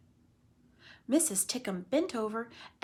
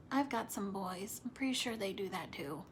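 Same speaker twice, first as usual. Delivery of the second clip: confiding whisper; 7 dB quieter than usual. Real, not acted. Teacher whispering to the class about her own boys. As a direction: whisper it like a secret.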